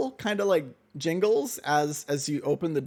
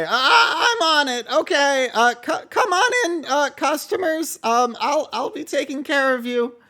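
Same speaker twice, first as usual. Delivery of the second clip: put-on much higher, louder, slow and laughing boy voice; eager kid rushing to serve; eager shop boy Mortimer; 10 semitones higher, 8 dB louder than usual. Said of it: "Mortimer's gonna say".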